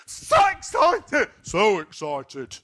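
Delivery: high, loud and slow, bursting with glee; overjoyed schoolboy squealing to the boss; excited child. Retold or imitated. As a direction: gush like a kid on Christmas morning. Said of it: "Matt was like an excited child".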